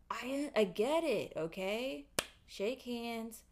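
hammed-up heartfelt apology; mock apology. Acting out a reconciliation.

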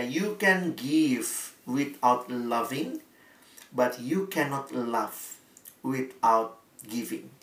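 spoken slowly and softly, savouring each word; slow quiet quote. Shown as a demonstration. Preacher reading the saying to the congregation, slow and soft. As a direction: let the saying sink in gently.

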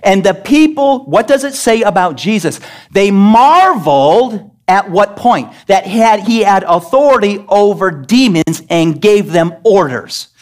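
high, emphatic pulpit proclamation; preaching at full force. Real, not acted. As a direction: proclaim it loudly to the congregation, stretching key words.

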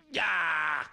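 high drawn-out "yaah" of frustration; mock cry of exasperation; frustrated yell. Retold reaction to being mocked.

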